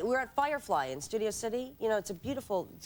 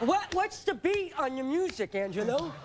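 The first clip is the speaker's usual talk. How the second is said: high, drawn-out admirer voice; fawning girl; 5 semitones higher, slower than usual. Acted. Woman mimicking girls who ask Angelo about music, fawning. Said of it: "one of the girls who went like this".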